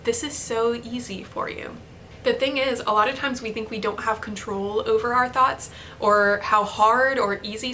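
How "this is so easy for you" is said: new calm thought. Retold or imitated. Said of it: "I had a new option".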